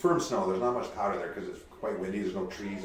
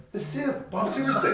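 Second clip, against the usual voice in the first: bar patron naming Bob. Retold or imitated. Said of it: "And they're like".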